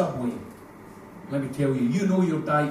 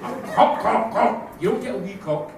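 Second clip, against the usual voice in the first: higher, louder emphatic insisting; wife insisting; 4 semitones higher, 6 dB louder than usual. Retold or imitated. Wife lecturing husband on the word, loud emphatic mock. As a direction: hammer the word home, exasperated. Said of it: "She goes".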